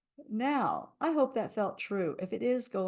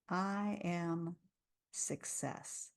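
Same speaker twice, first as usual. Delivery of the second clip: fading into a whisper on success; whispered affirmation; 6 dB quieter, much slower than usual. Shown as a demonstration. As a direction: let it drop to a breath. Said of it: "repeat after me and listen".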